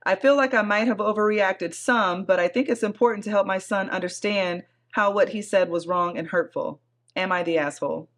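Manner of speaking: measured read-aloud of a post; story narration. A narrator's reading. Host reading a Reddit thread to her co-host, story narration. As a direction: read it out evenly, like a written account.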